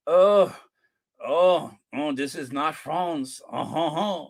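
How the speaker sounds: a hammed-up snooty French accent, nasal on France; mock French accent, sniffing at London; terrible French accent. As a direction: play the stuck-up French tourist in a bad French accent. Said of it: "I do a terrible, terrible French accent".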